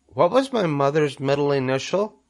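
high, small questioning voice; second little spider. A narrator's reading. Second spider questions Wilbur, high little voice. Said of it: "asked the second spider".

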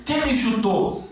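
high, drawn-out mock yell; imitated cry of accusation; retold pained yell. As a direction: call out in high-pitched indignation, imitating an injured player. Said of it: "Ele gritou, ele falou assim".

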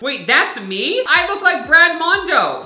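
high, loud, leaning on Brad; amazed exclaim. Real, not acted. Seeing his game avatar, shocked exclaim.

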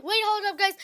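loud, high wait; abrupt halt; sudden stop. Real, not acted. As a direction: cut yourself off sharply. Stops herself suddenly.

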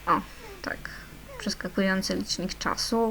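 excited little whisper; hushed glee at the timer. Real, not acted. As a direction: breathe it out, thrilled. Excited at skipping time.

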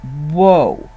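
slow, low, long whoa; a stunned, drawn-out whoa, pulling him up short; a low, stretched whoa. Retold or imitated. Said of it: "I said".

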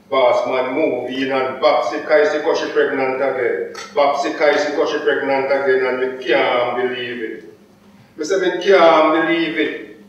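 rhythmic patois dub poetry recitation; chant-like Jamaican performance poem; Jamaican poem recital. Acted. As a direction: declaim the verse with a steady beat.

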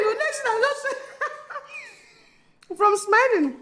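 high, slow, laughing words; laughing through words. Real, not acted. Retelling the baby's arrival, laughing through the words. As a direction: let the laugh take over the line. Breaks into laughter recounting birth.

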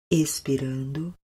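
whispered breath cue. Shown as a demonstration.

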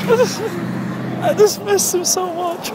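sad sigh. Pretend. Mourning the extinct Megaturtles.

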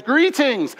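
high, polite little greeting; lightly voiced mild-mannered Canadian. Jesus greeting people as he walks into town, mild-mannered. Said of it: "he sounds like this mild-mannered, mild-mannered Canadian".

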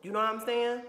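getting worked up, nearly yelling; angry. Real, not acted. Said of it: "Let me relax".

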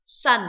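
loud clear model of "Sun"; teacher demo of "Sun"; model word. Shown as a demonstration. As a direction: say "Sun" crisply for students. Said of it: "Rồi, tiếp theo".

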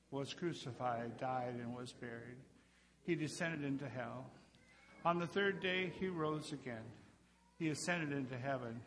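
steady unison creed recitation; measured liturgical chant-like reading; reciting the creed. Acted. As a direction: recite it together like a congregation at worship. Congregation recites the Apostles' Creed.

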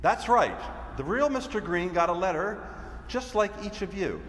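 confident agent revealing himself, projected; firm, measured theatrical explanation; Mr. Green, undercover agent. Acted. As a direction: declare it like a stage detective's big reveal. Performs Mr. Green's monologue.

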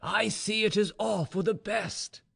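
high, slow, smiling reassurance. A narrator's reading. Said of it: "he said, smiling".

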